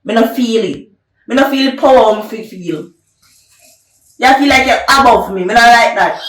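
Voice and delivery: loud, heavy stress on every not; angry complaint. Acted. Man demands respect from his woman, loud and angry. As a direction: hammer home that you feel disrespected. Argument over respect continues.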